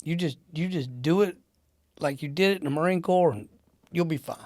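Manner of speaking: easy, unworried reassurance; retold nonchalance. Boss waving away a Marine's doubts, nonchalant. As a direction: toss it off as no big deal. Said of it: "he's just nonchalant".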